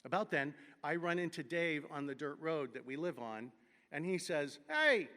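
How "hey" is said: loud high Vermont drawl hey; Vermont accent. Retold or imitated. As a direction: Springfield guy faking a Vermont accent. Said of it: "in his best I was born in Springfield, Mass, but trying to talk like a Vermonter accent".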